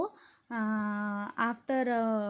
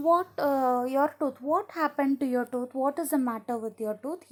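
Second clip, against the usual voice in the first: mildly acted disbelief, pitched up; surprised questioning; 3 semitones higher, 5 dB louder than usual. Aunt questioning Tom about his tooth, mildly surprised. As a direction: start high and loud, easing as you question.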